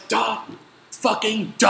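retold mock-exasperated duh. Annoyed rider to a clueless stranger on the train, exasperated. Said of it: "I was getting so mad".

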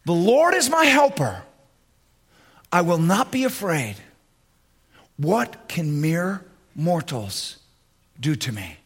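firm, sure declaration of faith; with confidence. Shown as a demonstration. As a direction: speak it like you own it. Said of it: "With confidence".

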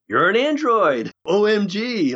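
high-pitched mock yell of a little girl; excited little girl. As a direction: imitate a thrilled little girl blurting it out. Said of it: "like a little girl, she yells out".

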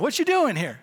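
high, loud booming question; half-deaf regular calling out; talking really loud. Retold or imitated. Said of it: "he's talking really loud".

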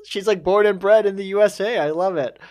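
high-pitched stunned exclaim, then delighted; shocked delight at her all-American voice; surprised. Retold or imitated. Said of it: "I was like".

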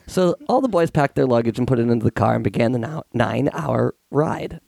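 sick hoarse voice, getting a cold. Real, not acted. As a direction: rasp through a cold. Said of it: "excuse me for this sexy voice".

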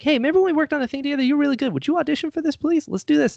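high, quick wheedling request; pleading favor. Retold or imitated. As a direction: rush the ask, sweet-talking old friends. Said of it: "I'm like".

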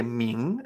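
"ming" rising like surprise; rising glide on "ming"; second tone. Shown as a demonstration. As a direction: lift "ming" into a question. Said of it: "segundo tono".

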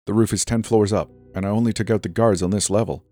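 hurried. Acted. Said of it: "out of breath".

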